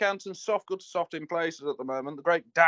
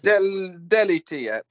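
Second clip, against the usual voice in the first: French accent; 2 semitones higher, 7 dB louder, slower than usual. Shown as a demonstration. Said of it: "In my best French accent".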